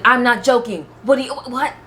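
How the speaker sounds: high, confused mock protest; imitated protest. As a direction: imitate a baffled, defensive husband. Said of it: "He's like".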